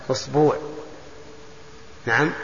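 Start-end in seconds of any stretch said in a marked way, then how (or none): 0.1-0.6 "أسبوع" said as usbuu', with long second vowel; long u ending. Shown as a demonstration. Teacher gives the tenth variant, "أسبوع" as usbuu'. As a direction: draw out the uu in "أسبوع". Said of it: "اللغة العاشرة".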